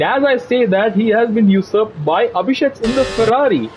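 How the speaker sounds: lively motorsport commentator delivery; live play-by-play. Real, not acted. Commentator following cars through the corners, lively play-by-play. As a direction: call the race as it unfolds.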